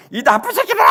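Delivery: very high hysterical scream; imitated tearful shriek of outrage; crying, screaming wife. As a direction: scream abuse through tears, as an enraged wife. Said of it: "막, 막 울면서 막".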